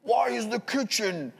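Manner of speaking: high, slow, nagging robot voice. Retold or imitated. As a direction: scold like a chore-nagging AI. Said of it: "like, robot voice".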